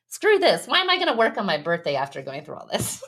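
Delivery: retold outburst of exasperation; fed up. Therapist recounting refusing to work on her birthday, fed up.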